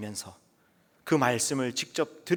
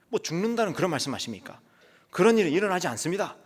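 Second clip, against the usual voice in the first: higher, louder indignant Peter scolding his master; rebuking protest; 4 semitones higher, 3 dB louder than usual. Acted. Peter rebuking Jesus, indignant and loud. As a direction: push back hard, rising in pitch and volume. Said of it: "하면서 예수님을 꾸짖었다는 거예요".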